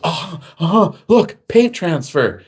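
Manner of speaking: high, smug cop voice; mocking the cop. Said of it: "the cop goes".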